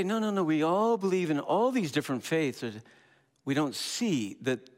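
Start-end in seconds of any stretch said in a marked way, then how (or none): 0.0-2.6 mock objector. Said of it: "you say".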